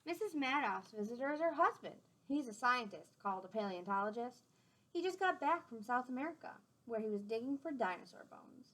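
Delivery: gentle storybook read-aloud; clear, friendly storytime voice; reading to children. A narrator's reading. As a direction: read it out to the class like a picture book. Reading a picture book aloud.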